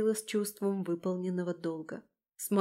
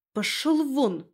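higher, forceful command; bold, raised-voice banishing; driving it out; 5 semitones higher, 4 dB louder, slower than usual. Acted. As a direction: order the beast out. Stamping, chasing the wolf away.

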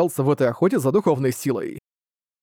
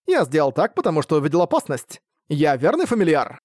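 feigned innocence. Acted. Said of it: "состроил невинные глазки".

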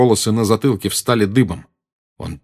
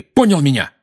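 shouting; 6 semitones higher, 5 dB louder than usual. Acted. Harry and Dudley shouting at each other.

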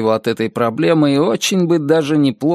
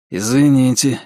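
meek. Acted. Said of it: "сказал он смиренно".

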